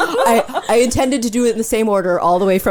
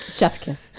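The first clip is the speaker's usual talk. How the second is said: chef's kiss; 9 semitones lower, 8 dB quieter than usual. Shown as a demonstration. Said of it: "That was a chef's kiss".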